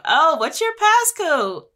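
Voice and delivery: high, slow, sugary put-on ask; fake sweet ask. To the boyfriend, faking innocence, sweetly high and slow. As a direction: coax it out of him sweetly.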